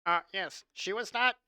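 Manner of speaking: a hint of a whiny nerd. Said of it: "How do you like my nerd voice?".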